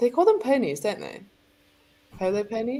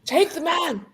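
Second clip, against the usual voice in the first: posh shout; 10 semitones higher than usual. Pretend. Shouted polo call.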